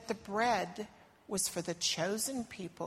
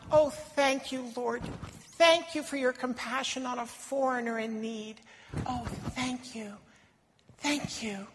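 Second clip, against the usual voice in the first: grateful; 3 semitones higher than usual. Acted. Thanking Jesus.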